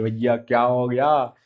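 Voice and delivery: mildly hammed-up alarm, as if mimicking the group; playful imitation of a fuss; mock uproar. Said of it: "हो हल्ला मचा रहे हैं".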